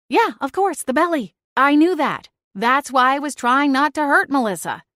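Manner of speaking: high, dry sarcasm; sarcastic. Acted. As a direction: roll your eyes at the obvious. Sarcastic inner reaction.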